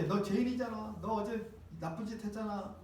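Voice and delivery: hushed accusing devil; devil in your ear. Acted. Devil condemning a churchgoer in the ear, quiet accusation. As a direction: softly needle the sinner, as if into the ear. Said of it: "마귀가 여러분 귀에다 대고".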